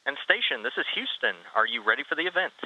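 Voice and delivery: tinny voice through a radio link; like a distant mission control channel; radio comms. Real, not acted. Houston calls station over radio.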